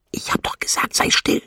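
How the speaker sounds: hushed, forceful reminder; whispered scolding. A narrator's reading. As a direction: whisper an order to be silent. Whispered scolding while hiding.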